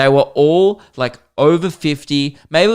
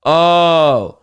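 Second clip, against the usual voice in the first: slow, higher mock-incredulous question; condescending; 3 semitones higher, 3 dB louder, much slower than usual. American passenger hearing about a sports bar, slow mock condescension. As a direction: imitate someone drawing it out condescendingly. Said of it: "been so condescending".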